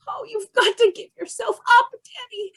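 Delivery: tearful plea. Acted. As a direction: voice breaking with tears. Mother pleads in tears.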